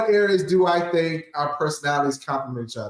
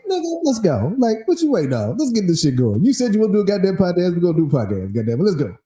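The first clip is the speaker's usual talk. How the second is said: impatient urging; faster than usual. Retold or imitated. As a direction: push them to get moving. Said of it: "And I'm like".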